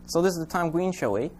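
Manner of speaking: goofy muffled sock puppet. Acted. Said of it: "puppet voice".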